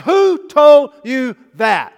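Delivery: drawn-out thundering question from God; God calling out to Adam, slow and loud; booming voice of God. Acted. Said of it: "And God said".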